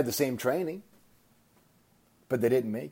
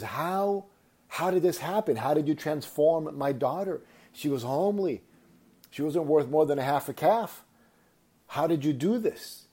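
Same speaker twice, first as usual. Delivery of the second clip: high-pitched, incredulous father, retold; mock sobbing; 6 semitones higher than usual. Sobbing farmer asks the prince about his daughter, imitated bewilderment. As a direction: plead in bewilderment, pitched up, lightly tearful. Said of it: "And he's sobbing".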